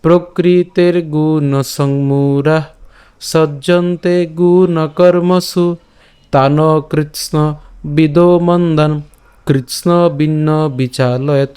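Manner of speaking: slow, sustained, even-pitched verse recitation; full shloka recitation. Shown as a demonstration. Teacher reading the complete shloka for learners, slow recitation. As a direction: draw out the vowels and recite evenly. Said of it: "সম্পূর্ণ শ্লোকটিকে যদি শুরু করে পাঠ করি".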